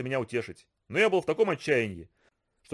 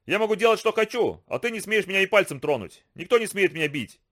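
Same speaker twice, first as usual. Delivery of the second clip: mocking bully; 6 semitones higher than usual. Bully boasts, high.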